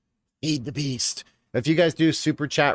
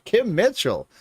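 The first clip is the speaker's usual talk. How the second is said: excited; 9 semitones higher, 4 dB louder, slower than usual. Real, not acted. Excited repeat.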